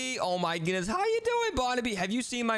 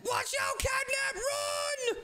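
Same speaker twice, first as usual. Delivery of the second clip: urgent warning; much slower than usual. Pretend. Warning Catnap about Poppy.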